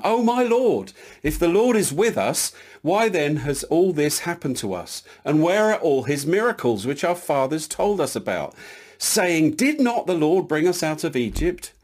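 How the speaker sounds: mild plaintive protest, high-pitched opening easing down; lightly acted complaint of a let-down man; Gideon, disappointed. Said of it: "You can hear the disappointment in his voice".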